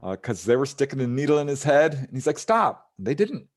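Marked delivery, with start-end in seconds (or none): 2.4-2.9 higher, louder mock cry of stop; imitated yelp of protest; retold protest. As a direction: act out crying out in pain. Retold man protesting at painful needle.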